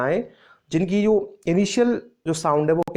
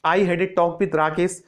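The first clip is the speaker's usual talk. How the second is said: slow example; much slower than usual. Shown as a demonstration. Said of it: "जैसे".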